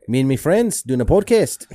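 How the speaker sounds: chummy British-style accent demo; put-on accent. Shown as a demonstration. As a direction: show off the comic accent. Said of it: "now I can talk like this".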